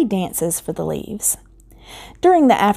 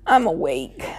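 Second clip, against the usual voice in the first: tired voice; 2 semitones lower, 3 dB quieter than usual. Acted. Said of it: "in a tired voice".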